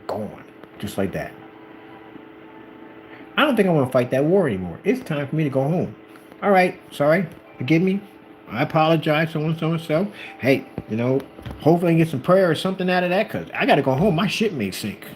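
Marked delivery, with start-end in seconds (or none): 3.3-15.0 high, hurried mock pleading; nervous backing down. General apologizing after losing his army, nervously backing out. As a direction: play a rattled general making excuses.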